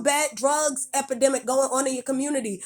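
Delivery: sharp scolding rant; angry rant. Real, not acted. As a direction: tell them off, fed up. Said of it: "That's why I spoke angrily".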